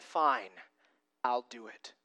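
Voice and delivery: low, softened acceptance; resigned obedience. Acted. Peter choosing to obey Jesus after all, quietly resigned. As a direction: give in quietly, dropping pitch and volume. Peter actually obeys, contrasted with sarcasm.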